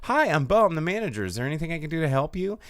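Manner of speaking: lightly voiced mock manager. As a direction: play the cheerful manager you just pretended to fetch. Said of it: "And I go".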